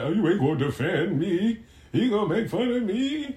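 lightly hammed-up wounded protest; mock complaint. Host mimicking a wife upset at being made fun of, mock complaint. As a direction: whine like a slighted spouse. Mock-voicing an aggrieved spouse.

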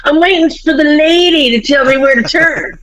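high, mock-irritated dad; retold exasperation. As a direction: imitate a fed-up driver explaining himself.

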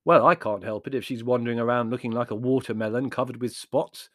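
mildly irritable retort; understated irritation. Acted. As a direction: snipe with a touch of impatience. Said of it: "said Larry irritably".

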